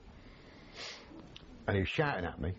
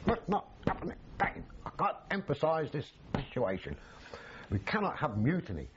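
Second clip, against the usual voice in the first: staged scolding, higher in pitch; mock reprimand; 5 semitones higher than usual. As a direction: act stern for the officer next door. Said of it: "I've got to shout at you".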